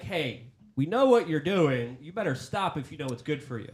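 lightly acted mobster warning; mafia threat. Host paraphrases the official's email as a mafia threat. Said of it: "it sounds like a mafia threat".

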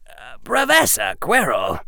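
put-on high, polite boyish interjection; hesitant Harry. Harry addressing Professor Quirrell, hesitant. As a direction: step in politely, pitched high.

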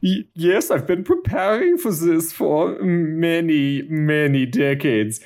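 put-on light German accent that stammers at the start; a hint of a German accent, stuttering a little; stammering German accent. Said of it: "is also kind of stammering".

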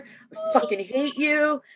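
high, slow, half-crying whine; imitating a tearful breakdown; mock crying. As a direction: fake a tearful wail at the truck. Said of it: "I'm like".

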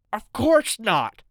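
lightly voiced older man, slow and pleading; a hint of a scared husband drawing it out; frightened neighbour. A narrator's reading. Mister Borden answers the gunman, lightly voiced and pleading.

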